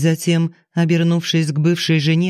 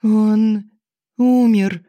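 sobbing babble; 6 semitones higher, much slower than usual. A narrator's reading. Widow sobbing the news to her father-in-law through hiccups. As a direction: blurt it out between sobs. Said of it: "сквозь сопливую икоту пролепетала Алиса".

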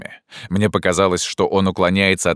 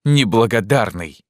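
loud, higher accusing shout; angry cry; 6 semitones higher, 4 dB louder than usual. Acted. Narrator angrily accuses Pierrot of ingratitude. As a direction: spit the word as an accusation.

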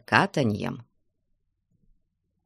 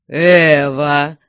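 pleased exclamation, louder; smiling reply; 7 dB louder than usual. A narrator's reading. Surly watchman brightening at the offer of vodka, smiling. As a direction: answer loudly with a smile. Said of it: "с улыбкой отозвался груздок".

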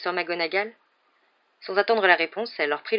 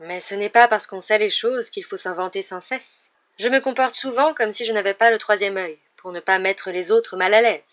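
lightly voiced haughty seer; 3 semitones higher, 5 dB louder than usual.

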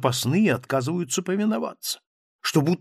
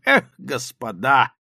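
slow, louder sigh of an exclamation; exclaiming; 6 dB louder, slower than usual. A narrator's reading. Captain exclaims to the writers, slow and loud. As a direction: draw out a hearty cry. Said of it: "воскликнул он вдруг".

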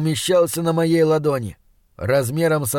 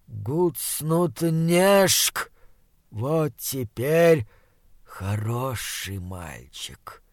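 monster voice; 2 semitones lower, 4 dB quieter, much slower than usual. Acted. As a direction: purr it like a rotting beast.

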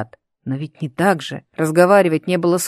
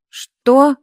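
sudden high, louder startled question; almost frightened; 8 semitones higher, 6 dB louder than usual. A narrator's reading. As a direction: jump at it, half scared. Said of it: "спросил почти испуганно".

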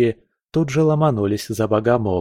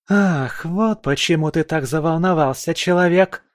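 higher, furious mocking accusation; enraged; 7 semitones higher than usual. A narrator's reading. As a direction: accuse him in a rage. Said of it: "разъярилась Валькирия". (в ярости)

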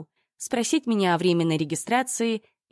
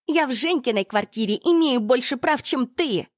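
high, loud furious yell; explosive rage; 7 semitones higher, 3 dB louder than usual. A narrator's reading. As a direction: scream it in her face. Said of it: "выкрикнула Ольга". (яростный выкрик)

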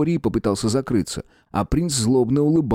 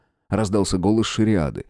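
usual speaking voice

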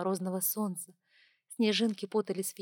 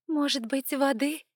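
lightly voiced flight attendant; 6 semitones higher, 4 dB louder than usual. A narrator's reading. Stewardess offers water.

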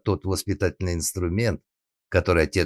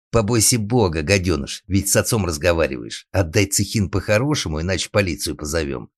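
raised scolding voice; shouting; 2 semitones higher, 4 dB louder than usual. Acted. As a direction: call out a reprimand to the brat. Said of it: "крикнул ему Алекс".

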